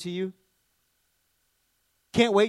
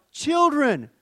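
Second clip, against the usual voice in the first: fond cry; 8 semitones higher, 5 dB louder than usual. Acted. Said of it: "he cries out".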